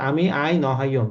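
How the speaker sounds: আই নহাইয়ম repeated in Chittagonian Bengali; a calm Chittagong dialect demo. Shown as a demonstration. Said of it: "উপভাষাটা পুরোপুরি মুখের ভাষা".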